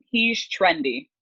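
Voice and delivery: drawn-out mock praise, slow. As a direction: savour the word trendy like a hip recruiter. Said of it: "they said".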